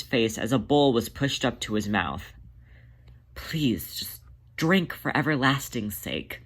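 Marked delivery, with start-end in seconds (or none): 3.4-6.4 breathy, panicked plea that starts as a whisper; a hint of panic, whispered then pleading; strained panicked whisper. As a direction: beg him to drink, barely voiced and scared. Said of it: "only the strained panic of his tone".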